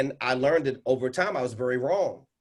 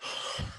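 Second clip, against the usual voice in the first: short audible sigh; demonstrated exhale; 9 dB quieter than usual. Shown as a demonstration. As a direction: let a deep breath go too soon. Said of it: "So I tried it again. I said".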